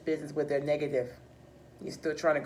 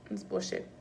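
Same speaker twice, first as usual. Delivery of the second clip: muttered aside; 2 semitones higher, 8 dB quieter than usual. Acted. Repeats verdict under breath.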